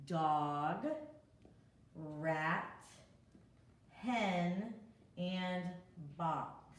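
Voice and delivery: each word said alone, a pause between; reading the word list aloud. Shown as a demonstration. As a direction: read the list to young kids. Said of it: "let's read all the words together".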